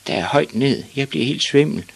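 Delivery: high, lightly voiced small boy; uneasy boy. A narrator's reading. Boy dizzy high on bicycle.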